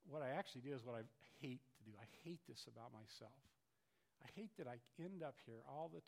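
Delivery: soft, hushed lament; quiet despair. Acted. Preacher voicing a believer's despair, soft hushed lament.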